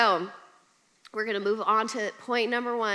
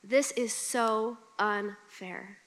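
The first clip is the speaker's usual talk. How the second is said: sulky complaint; 3 dB quieter, much slower than usual. Retold or imitated. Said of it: "I said this out loud".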